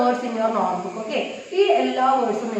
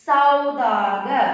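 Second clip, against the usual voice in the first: slow teaching read; much slower than usual. Shown as a demonstration. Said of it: "Here with sa we are using okay matra".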